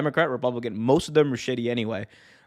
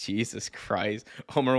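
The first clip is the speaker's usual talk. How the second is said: ordinary talk, nothing marked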